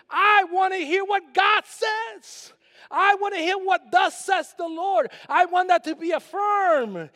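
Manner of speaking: preaching shout. Acted. Pastor declaring to the congregation he wants God's word, shouting. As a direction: shout it out from the pulpit.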